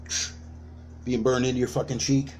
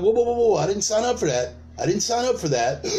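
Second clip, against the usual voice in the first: mock alarmed backpedal; 5 semitones higher than usual. Ally refusing the militants, high alarmed protest. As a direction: back off fast in alarm.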